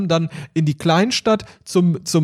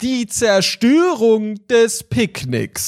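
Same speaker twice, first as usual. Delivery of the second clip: slow, announcing a grand title; slow dramatic title voice; 4 semitones higher, much slower than usual. Acted. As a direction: declaim it like a movie trailer.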